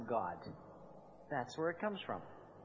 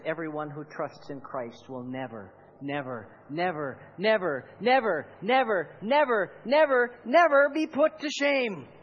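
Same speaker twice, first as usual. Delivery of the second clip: building preaching; 6 dB louder than usual. Acted. Preacher declaring Paul's promise, from hushed to shouting.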